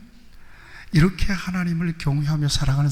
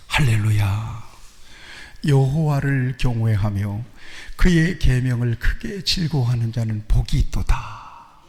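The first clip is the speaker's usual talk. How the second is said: unhurried solemn psalm reading; slow reverent recital; slow scripture reading; slower than usual. Acted. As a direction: read it out slowly to the congregation. Reads the psalm aloud.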